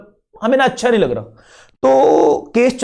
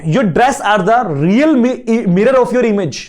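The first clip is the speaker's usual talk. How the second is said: quoted saying; much slower than usual. Retold or imitated. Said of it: "बोलते ना".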